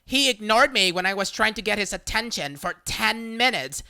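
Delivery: loud, indignant demand to the manager; demanding complaint. Retold or imitated. Entitled shopper demanding a worker be fired, loud and indignant. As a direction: insist on getting him fired.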